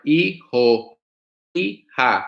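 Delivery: "Hijo, hija" with the H left silent. Shown as a demonstration. Teacher shows how to say son or daughter, silent H in "Hijo, hija". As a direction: begin "Hijo, hija" on the vowel, no H sound. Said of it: "H silent".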